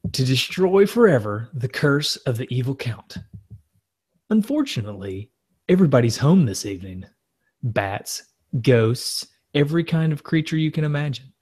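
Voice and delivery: dramatic movie-trailer announcer. Acted. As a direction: read it like a spooky trailer announcer. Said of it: "let me get my announcer voice".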